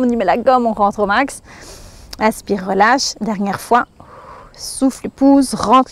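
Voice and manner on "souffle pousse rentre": exhaling while speaking. Shown as a demonstration. Instructor cueing the last exhale of the exercise, whispered breath. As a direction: whisper the word as you breathe out.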